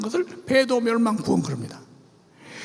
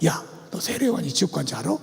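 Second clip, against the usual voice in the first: sly quiz; 9 semitones lower, 4 dB quieter than usual. Retold or imitated. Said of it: "이렇게 물어보는 거야".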